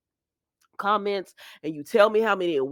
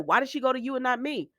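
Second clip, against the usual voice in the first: retold hurt protest, quick and higher; a touch of angry demand, imitating him; mildly angry; 6 semitones higher, faster than usual. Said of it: "and he's angry".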